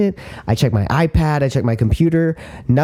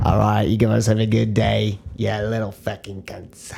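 mock sign-off; 3 semitones lower, 3 dB quieter than usual.

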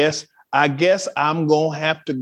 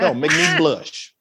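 Annie voice; 3 semitones lower, slower than usual. Retold or imitated. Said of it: "Y'all like".

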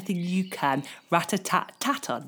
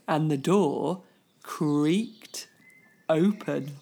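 creaky suspense; 7 semitones lower, slower than usual. A narrator's reading. Suspense narration.

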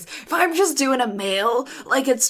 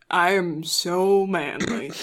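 low, mock-manly voice; Brad; 4 semitones lower than usual. Co-host doing an impression of the host, low and manly. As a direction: put on a deep manly voice. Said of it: "this is my Brad impression".

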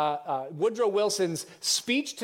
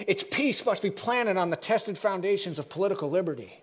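Woodrow Wilson; 3 semitones higher than usual. Acted. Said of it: "I'm going back to my voice now".

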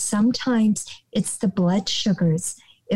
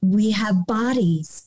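whispered. Real, not acted. Mantra-like teaching.

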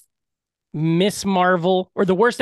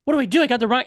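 mock freaking out; 4 semitones higher, much faster than usual. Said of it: "she starts freaking out".

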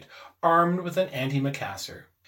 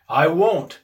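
doggedly; 3 semitones higher, 9 dB louder than usual. A narrator's reading. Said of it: "said his father doggedly".

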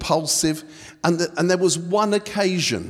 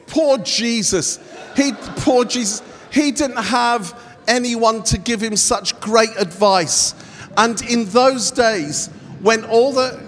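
higher, projected restart; raised preaching voice; 3 semitones higher than usual. Acted. Preacher restarting his line properly, raised preaching voice. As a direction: proclaim it up high to the room.

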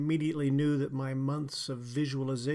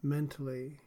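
guided meditation. Acted. Leads a guided relaxation.

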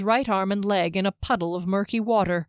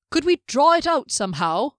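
higher, louder eager ask; eager question; 7 semitones higher, 5 dB louder than usual. Acted. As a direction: pitch it eagerly. Eager suggestion.

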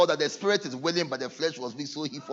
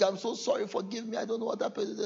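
mock pleading; 5 semitones higher, 8 dB quieter than usual. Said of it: "Another person".

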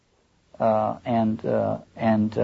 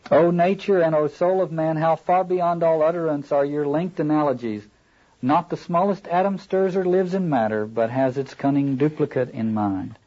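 measured, lofty reading aloud; rhetorical literary reading; 2 semitones higher than usual. A narrator's reading. Ahab addresses nature and the soul, rhetorical reading. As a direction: declaim it in long, even phrases. Reads the novel's apostrophe.

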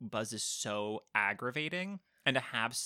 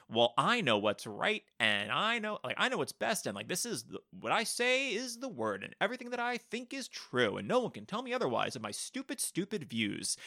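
pompous blowhard; 4 semitones higher than usual. Retold or imitated. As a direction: puff up like a blowhard who knows best. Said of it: "someone that could be like".

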